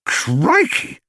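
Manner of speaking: put-on boy gasping at the bear; amazed exclamation. A narrator's reading.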